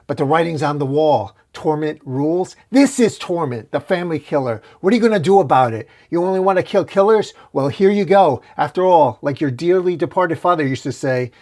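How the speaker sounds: mock Eddie like a gleeful killer; taunting villain.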